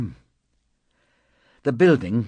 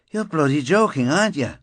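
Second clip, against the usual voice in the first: outraged disbelief; 8 semitones higher, 6 dB louder than usual. Acted. Fraser outraged at request for favour.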